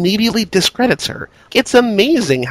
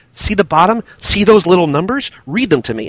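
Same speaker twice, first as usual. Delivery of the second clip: mock condescending. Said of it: "He's like".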